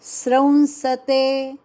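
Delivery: स्रंसते with the sra cluster first; correct pronunciation. Shown as a demonstration. Teacher answers what is correct, clear demo. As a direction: say स्रंसते, sra then nasal. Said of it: "फिर सही क्या?".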